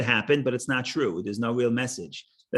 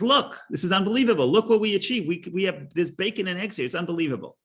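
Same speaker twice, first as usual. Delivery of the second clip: higher, lightly voiced bragging chicken; proud chicken; 4 semitones higher than usual. Chicken boasting to the pig, lightly voiced and higher. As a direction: brag like a hen thrilled with herself, a little higher. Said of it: "the chicken turns to the, to the pig and says".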